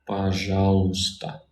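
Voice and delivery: пожалуйста said slowly and clearly; slow Russian demo. Shown as a demonstration. Teacher repeats пожалуйста slowly for a learner. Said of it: "in this case is gonna be".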